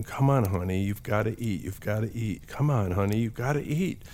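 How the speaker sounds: coaxing mom, mildly frustrated, rising at the end; frustrated mother. Retold or imitated. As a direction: imitate a mother urging her child to eat. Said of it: "I'm sure, was very frustrated".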